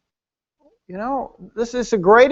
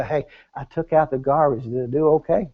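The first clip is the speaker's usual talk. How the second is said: lower, softer, seeking approval; timid little boy; 5 semitones lower, 3 dB quieter than usual. Acted. Husband to wife about the garbage, timid and approval-seeking. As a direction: ask like a boy afraid of trouble. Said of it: "we might not even say it that way".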